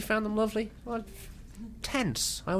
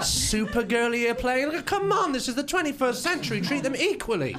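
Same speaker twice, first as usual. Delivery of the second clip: mock outrage; 9 semitones higher than usual.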